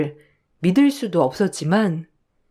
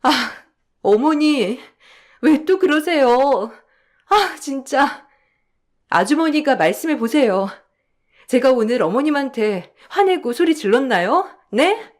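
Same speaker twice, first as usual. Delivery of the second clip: upset protest; 5 semitones higher than usual. Acted. Wife upset at false accusation.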